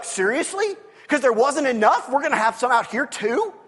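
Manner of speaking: mock incredulous, dry and wry; tongue-in-cheek sarcasm. Israelites griping about graves, in mock disbelief. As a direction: poke fun at their complaint. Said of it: "tongue-in-cheek moments".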